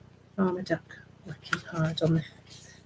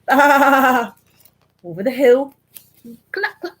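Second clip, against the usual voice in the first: laughing narration; 5 semitones higher, 9 dB louder, much slower than usual. A narrator's reading. Laughing at farmer chase.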